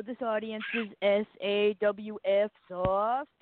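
slow, spelled-out wrestling promo; mock Enzo catchphrase. Mimicking Enzo's catchphrase for a cohost, slow and spelled out. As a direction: drawl it like a cocky wrestler cutting a promo. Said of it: "you didn't see Cass go around going".

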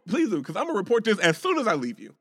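high, loud mocking dare; daring him to go ahead; defiant dare. Scene: daring the white man to report him, high and loud. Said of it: "I'm like".

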